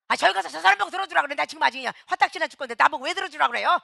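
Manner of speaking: fast, loud, irritable brush-off; quick exasperated retort; irritated snapping. Retold or imitated. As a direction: snap back, too annoyed to help. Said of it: "이게 신경질이 나가는 거야".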